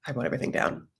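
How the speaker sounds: breathy hushed whisper; imitating her whispered aside; whispered quote. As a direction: whisper it like a shy confession. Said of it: "Giuliana's like".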